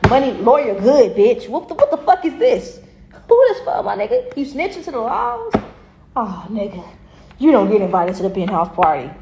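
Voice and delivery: hammed-up rapper sneering at a snitch; mock gangster. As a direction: play an outraged rich rapper catching a snitch. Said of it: "It's like".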